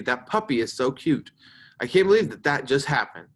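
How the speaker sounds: lively exclamations, mildly emphatic; exclaiming. Shown as a demonstration. Teacher reads exclamatory examples to the class, exclaiming. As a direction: exclaim each example with some punch. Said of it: "All those sentences right there are exclamatory sentences".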